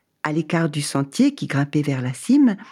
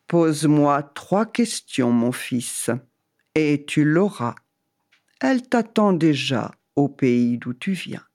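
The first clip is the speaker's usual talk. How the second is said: voice of God. Acted. God answers.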